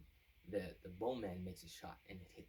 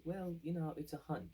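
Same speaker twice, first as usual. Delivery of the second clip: sly schemer; 9 semitones higher, 5 dB louder than usual. Retold or imitated. Sly advisor voice in retold scene.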